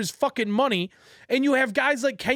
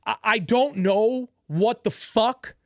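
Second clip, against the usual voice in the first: slow, dumbfounded emphasis on each word; slow disbelief; slower than usual. Real, not acted. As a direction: drag it out, at a loss for words. Opens second rant, dumbfounded.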